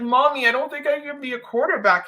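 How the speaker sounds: a hint of a child talking to mommy; imitating young son. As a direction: lift the voice slightly to imitate a kid. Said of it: "And he's like".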